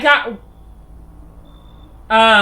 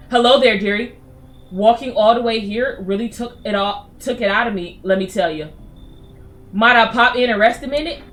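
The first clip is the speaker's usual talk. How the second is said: put-on old lady voice. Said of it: "an old lady like me".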